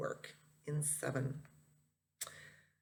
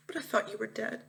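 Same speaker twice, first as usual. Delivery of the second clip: tearful; 5 semitones higher than usual. Acted. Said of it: "I kept bawling and bawling".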